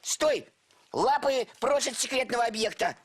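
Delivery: guard the apple fiercely; guard shout. Acted.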